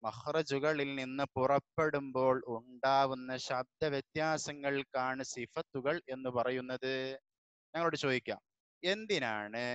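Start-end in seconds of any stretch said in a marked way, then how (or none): 0.0-6.9 measured, even read-aloud of a definition; teacher reading the definition aloud; slow textbook reading. Shown as a demonstration. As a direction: spell out the definition slowly for the class. Reads the definition slowly.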